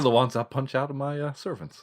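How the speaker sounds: lightly put-on American accent; a hint of an American accent. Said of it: "I don't know why I've got an American accent".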